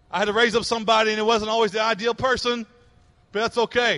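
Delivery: driving, repetitive preacher's cadence; impassioned preaching. Acted. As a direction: pile up each phrase with rising urgency. Preacher voices God in driving repetition.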